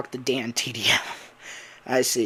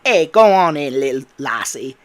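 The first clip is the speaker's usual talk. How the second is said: loud, put-on Cockney; Eclipse, Cockney accent; 9 dB louder than usual. Eclipse urging Cassie inside, loud Cockney. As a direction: call out in a mock Cockney accent. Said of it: "And it'd be Cockney accent".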